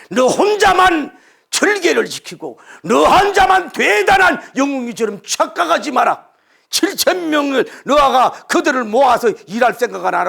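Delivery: loud, high scolding shout; God shouting down a proud prophet; stern rebuke. A narrator's reading. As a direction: thunder the rebuke at him.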